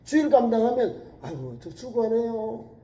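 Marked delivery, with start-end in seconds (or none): 1.2-2.7 slow, kind thank-you to a worker; kind encouragement. Retold or imitated. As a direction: slowly thank the worker for the effort. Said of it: "그 말 한마디 힘을 넣은 거예요".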